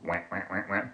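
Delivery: low quacking duck call; a quick low duck impression; duck noise. Shown as a demonstration. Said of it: "I can make a duck noise".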